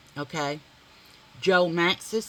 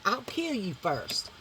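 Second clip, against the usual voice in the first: same threat, softer and slower; toned-down threat; 6 dB quieter, slower than usual. Shown as a demonstration. Redoing the kill threat more quietly. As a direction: pull the threat back, quiet and cold. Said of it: "I wanna take that down just a little".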